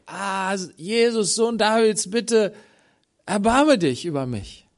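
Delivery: high, loud pleading call; desperate cry for mercy. Acted. Blind beggar calls out to Jesus by the roadside, loud and pleading. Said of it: "der am Wegesrand war und schrie".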